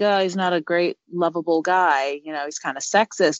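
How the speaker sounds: usual speaking voice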